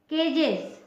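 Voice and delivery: केजेस as "kay-jez", the final es voiced like z; teaching pronunciation. Shown as a demonstration. Teacher showing pupils a plural ending carefully. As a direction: model केजेस clearly for the class. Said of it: "इसमें भी ज उच्चारण वाला consonant है".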